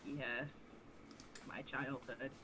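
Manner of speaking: put-on old man voice. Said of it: "I'm losing my old man voice".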